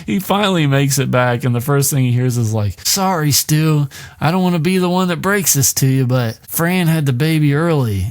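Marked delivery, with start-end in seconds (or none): 2.9-8.1 apologetic Teddy. Acted. Teddy breaking bad news.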